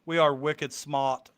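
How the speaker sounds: slow, put-on Boston accent. Asking Renee about her accent, imitated Boston accent. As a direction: drawl it like a Bostonian, dropping the R. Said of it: "Do you have the Boston accent".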